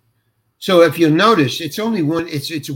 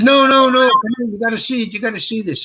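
urgent insistence; 7 semitones higher, faster than usual. Retold or imitated. Director pressing the actor to watch playback, urgently insistent. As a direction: imitate an excited director who won't take no.

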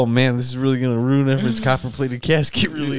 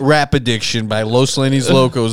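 news anchor; 3 dB louder than usual. Pretend. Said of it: "do news station".

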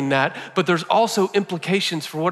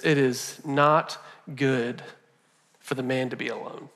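grave God voice; 3 semitones lower, 6 dB quieter than usual. Acted. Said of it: "He says this".

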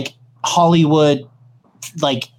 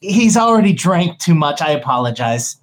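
Doctor Ravna. Acted. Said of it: "Doctor Ravna walks up and goes".

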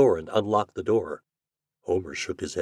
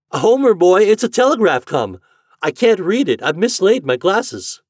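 high, loud, agitated mother voice; flustered country mother; 11 semitones higher, 9 dB louder than usual. Acted. Mother handing her boy a telegraph, flustered.

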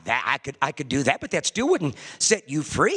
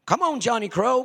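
hollering crow; 8 semitones higher, 3 dB louder than usual. Retold or imitated. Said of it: "Here comes the crows over hollering".

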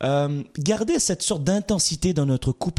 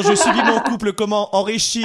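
louder, higher, laughing through the title; laughing announcement; 5 semitones higher, 5 dB louder than usual. Real, not acted. Host to listeners, laughing as he announces the theme. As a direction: laugh while teasing the show theme.

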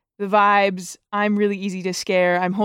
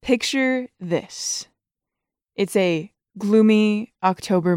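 relishing a story; storyteller voice. Acted. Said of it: "I'm gonna put on my storyteller voice here".

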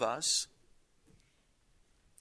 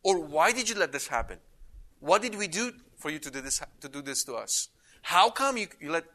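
mock complaint; 3 semitones higher than usual. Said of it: "you'd think that he's gonna add next".

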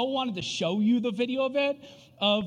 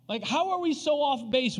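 baffled disbelief; 6 semitones higher than usual. Retold or imitated. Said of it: "I just remember being like".

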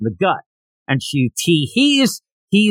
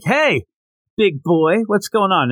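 flirty hey; 3 semitones higher than usual. Retold or imitated. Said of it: "should talk like Mae West".

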